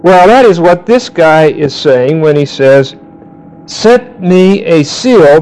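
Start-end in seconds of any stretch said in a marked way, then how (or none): 3.7-5.4 slow scripture reading. Shown as a demonstration.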